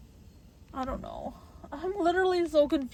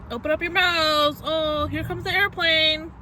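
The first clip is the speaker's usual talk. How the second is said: put-on sing-song baby feeding voice; airplane spoon game; 4 semitones higher, 4 dB louder than usual. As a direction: coax like feeding a toddler.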